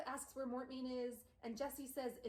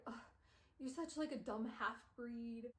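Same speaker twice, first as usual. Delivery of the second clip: contemptuous sneer; slower than usual. Retold or imitated. Contemptuous vampire lover.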